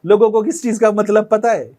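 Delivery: high, loud, exasperated lecturing voice; hammed-up know-it-all explaining; animated mock lecture. Voicing the editor Moro in skit.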